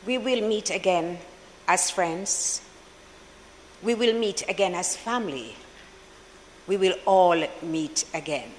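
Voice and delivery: understated, composed and quietly reassuring; calm reassurance. Retold or imitated. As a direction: quote it calmly, in measured phrases with pauses. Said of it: "she very calmly said".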